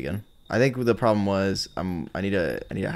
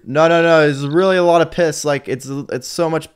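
mock pleading stranger; 4 semitones higher, 5 dB louder than usual. Pleading with the game's AI.

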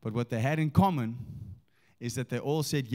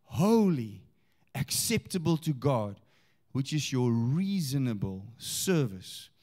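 slow, weighty Bible reading; scripture reading; slower than usual. Acted. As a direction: declaim the verse slowly, leaning on key words. Reads scripture aloud.

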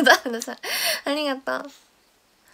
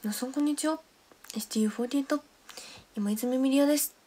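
imitating Miria. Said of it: "似てるやん。".

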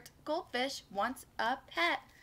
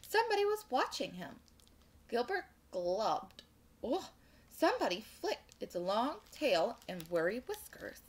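animated storytime narration; picture-book read-aloud; children's story reading; 2 semitones lower than usual. A narrator's reading. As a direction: read it to little listeners with lilting emphasis.

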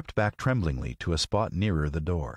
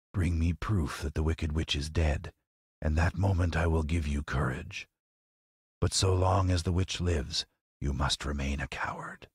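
hushed, eerie Oz; mysterious Oz voice. Acted. Oz's voice answers.

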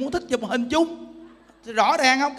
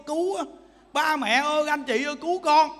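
mock cry for help; 4 semitones higher than usual. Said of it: "mình kêu á".

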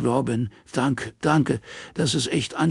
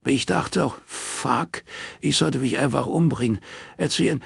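sobbing plea; 9 semitones higher than usual. Acted. Morris begging Robin not to tell, sobbing desperately. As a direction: beg through dry sobs. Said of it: "Sturm trockener Schluchzer".

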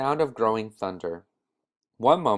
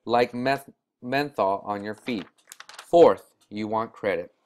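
put-on emphatic old shopkeeper. Shopkeeper lays out points.

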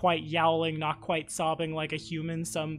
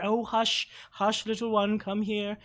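soothing; 4 semitones higher than usual. Acted. Mother soothes cub.

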